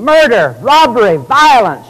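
high, urgent street cry; imitating a bystander yelling for police; mock screaming. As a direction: raise the alarm one word at a time. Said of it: "And you start screaming".

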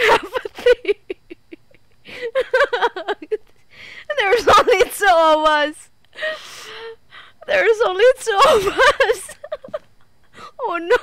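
loud, tearful panic; real frightened wailing; scared. Real, not acted. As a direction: cry out high, near sobbing. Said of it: "I'm so scared".

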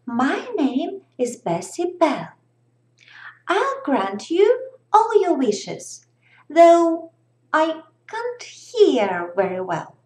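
lightly voiced cheerful fairy; a hint of a bright, friendly fairy. Fairy character voice.

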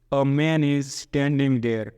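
very slow, each word spaced out; careful classroom dictation; slow model reading. Shown as a demonstration. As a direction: read A man is standing there. slowly for the class. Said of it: "જેમ કે".

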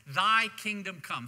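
loud, punchy scripture quote; emphatic recitation. Shown as a demonstration. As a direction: declare the line firmly to the congregation. Recites scripture line before congregation repeats.

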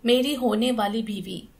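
casual, unbothered reply; relaxed tone. Acted. Nephew answering his aunt, unbothered and relaxed. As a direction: toss it off lazily. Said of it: "आरामदेह लहजा अपनाए बोला".

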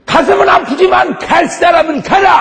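shouted high and loud; mock shout. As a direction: fling it out like a defiant cry. Preacher shouting a bold declaration.

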